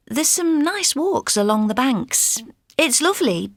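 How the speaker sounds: ordinary talk, nothing marked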